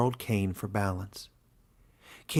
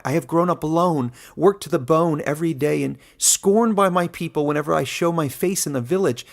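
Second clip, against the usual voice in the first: raised, louder, higher indignant voice; young outcast angrily defending his people's mark to the warden; angry protest; 5 semitones higher, 5 dB louder than usual. A narrator's reading. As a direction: hurl it at the old man, hurt.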